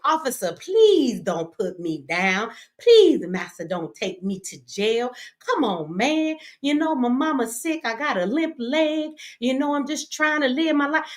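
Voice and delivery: imitating a man pleading with police; hammed-up grovelling to an officer; mock begging. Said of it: "begging, shucking, jiving".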